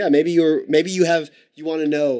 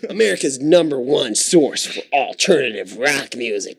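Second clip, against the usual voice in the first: announcer; slower than usual. Pretend.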